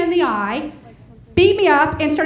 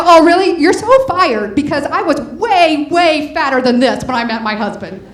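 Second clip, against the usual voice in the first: indignant comeback; 6 dB louder than usual. Retold or imitated. Indignant retort to the psychiatrist.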